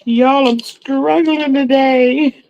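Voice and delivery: high, slow, laughing through words. Real, not acted. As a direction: laugh while admitting the struggle. Laughing at her own slip.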